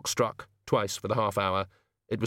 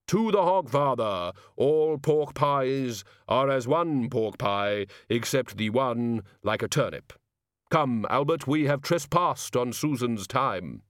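slow, drawn-out voice of Death; solemn Death; 3 semitones higher, slower than usual. Acted. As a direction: intone each word slowly, like Death.

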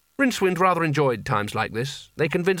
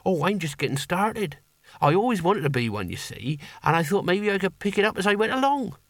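higher, lightly voiced eager lad; earnest boy hero; 5 semitones higher than usual. Young would-be barbarian explains his failed theft, earnest and higher. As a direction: play the keen young barbarian.

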